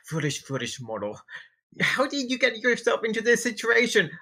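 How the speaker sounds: high, sneering imp taunt; mock a fallen priest like a devil. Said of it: "you hear a imp".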